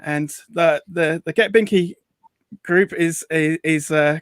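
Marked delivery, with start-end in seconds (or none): none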